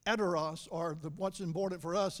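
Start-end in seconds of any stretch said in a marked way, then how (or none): 0.1-0.7 "eteros" said EH-teh-ros; Greek pronunciation. Shown as a demonstration. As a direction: pronounce "eteros" for the class.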